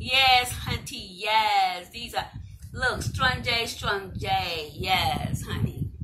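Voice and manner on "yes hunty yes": louder, punchier sassy praise; sassy hunty talk. Acted. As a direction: belt the praise like a diva. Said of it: "when I be talking like that".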